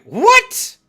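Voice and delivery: high squeaky disbelief; hammed-up stunned squeak; shocked what. Caller curses him, shocked high squeak. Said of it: "I'm like".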